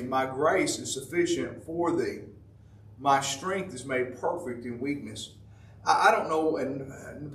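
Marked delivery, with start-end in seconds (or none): 0.0-5.3 softly reassuring God; tender divine voice. Acted. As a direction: speak grace gently. God's reply quoted softly.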